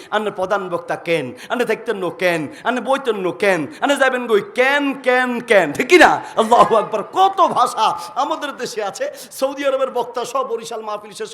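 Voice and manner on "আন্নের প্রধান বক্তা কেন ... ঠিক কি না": ramp up the Noakhali "keno" chant to a loud peak; rhythmic Noakhali dialect. Shown as a demonstration. Preacher showing the crowd the Noakhali rhythm, building to a loud peak. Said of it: "Noakhali ভাষাটা তাল আছে".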